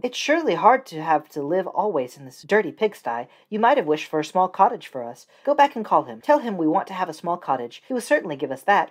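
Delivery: a pushy wife pressing her husband; wife's voice. Acted.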